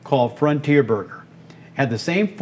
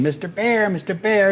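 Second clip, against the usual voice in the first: little duck voice; 6 semitones higher than usual. Retold or imitated. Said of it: "in this little duck voice".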